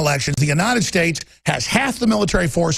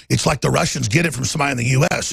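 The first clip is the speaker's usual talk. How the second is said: much lower, fast mocking Hillary voice; scornful impersonation of Hillary; 7 semitones lower, faster than usual. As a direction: lower the voice to mock her. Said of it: "Hillary said".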